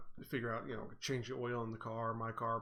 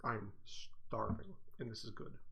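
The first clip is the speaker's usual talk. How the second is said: chewing while talking; words through a mouthful; mouth full; 4 dB quieter, slower than usual. Real, not acted. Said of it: "pardon me for eating".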